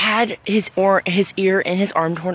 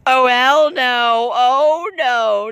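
slow, higher disbelieving refusal; hell no; 6 semitones higher, much slower than usual. Acted. Blossom refusing Buck, slow disgusted disbelief. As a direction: drag it out in disgust.

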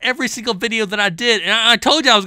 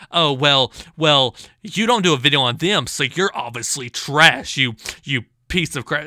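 lower, sneering mimic of the commenter; mocking impression; 5 semitones lower than usual. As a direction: parody his nasty comment.

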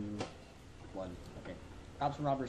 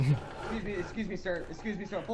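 put-on southern accent; 5 semitones higher than usual. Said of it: "my overemphasized southern accent".

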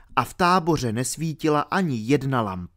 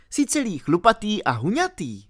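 put-on higher girl, reassuring; comforting; 9 semitones higher than usual. A narrator's reading. Alenka comforting R about being naked, reassuring. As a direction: gently reassure a friend.

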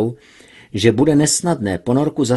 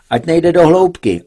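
higher, louder, barked command; irritated order; 7 semitones higher, 7 dB louder than usual. Acted. Max orders pilot over radio, irritated bark. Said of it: "rozkazoval popuzený Max".

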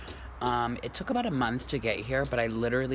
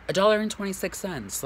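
amazed; 8 semitones higher, 3 dB louder than usual. Real, not acted. Emphatic repeat of the price.

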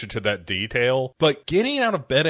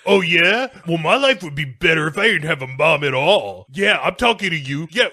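bratty taunting; 5 semitones higher, 4 dB louder than usual. Retold or imitated. Bratty kid taunting his mom.

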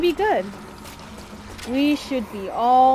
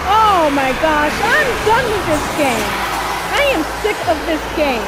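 raging gamer. Real, not acted. Gamer rants after losing.

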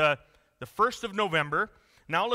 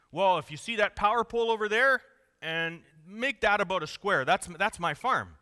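big Texan rancher; 4 semitones higher, 3 dB louder than usual. Retold or imitated. Rancher boasting to a visitor about his farm, booming Texan voice. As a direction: brag about your land like a big-hat Texan. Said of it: "the Texan says".

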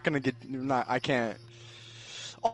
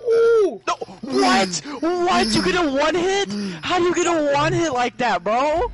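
shocked outrage; 6 semitones higher than usual. Real, not acted. Shocked at a one-hit kill.

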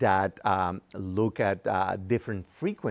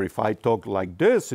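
low-pitched demo; 5 dB louder than usual. Shown as a demonstration. Engineer explaining frequency to the interviewer, low-pitched. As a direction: drop into a low voice to demonstrate. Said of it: "it's a very low pitch".

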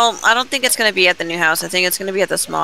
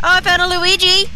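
excited exclamation; 13 semitones higher than usual. Real, not acted. Excited discovery.

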